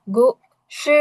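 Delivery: গু, সে with the tone dropping from top to bottom; falling tone. Shown as a demonstration. Teacher explains the word for story, গু, সে falling. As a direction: sound out গু, সে as two separate syllables, falling. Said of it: "উপর থেকে নিচের দিকে আসতেছে টোনটা".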